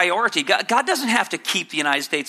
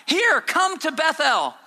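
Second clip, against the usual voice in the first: higher, slow mock welcome to "Bethel"; sarcastic invitation; 8 semitones higher, slower than usual. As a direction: invite them to sin with a sneer. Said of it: "he's being sarcastic here".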